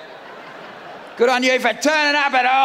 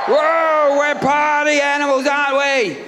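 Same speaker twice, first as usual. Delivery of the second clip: excited cheer; 2 semitones higher, slower than usual. Real, not acted. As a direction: whoop it up at the crowd. Cheering the covid crowd.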